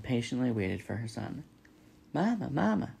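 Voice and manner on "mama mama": put-on high baby gosling voice; gosling calling out. A narrator's reading. Gosling calling waiting robot mother, high peeping voice. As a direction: call for mother in a high little chick voice.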